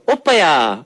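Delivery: Busan-dialect "Oppaya" with a drawn-out ending; Busan accent. Shown as a demonstration. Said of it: "But in Busan, Busan dialect, they go".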